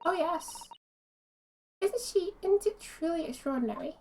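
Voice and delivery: a touch of polite wonder; mildly marvelling character read; lightly voiced game character. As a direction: lightly act out the astonished dialogue. Reads game dialogue in character.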